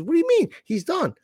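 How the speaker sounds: mock disbelief. Retelling argument with wife.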